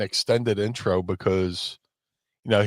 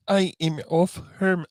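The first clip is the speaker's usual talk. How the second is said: German strongman voice; 9 semitones higher, slower than usual. Retold or imitated. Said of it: "he would always give him this voice".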